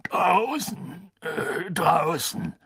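high, halting tearful reply; distressed, stumbling over the answer. Acted. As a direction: choke it out on the edge of crying. Hagrid answers the executioner, distressed.

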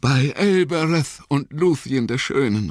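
high, strained invocation; high, solemn, desperate cry; last-strength call. Acted. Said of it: "rief Frodo mit letzter Kraft".

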